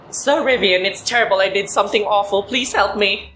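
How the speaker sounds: a hint of a high pleading maid; milder maid voice. Rereading the maid's plea to Rivian, lightly voiced. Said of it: "if she said the voice".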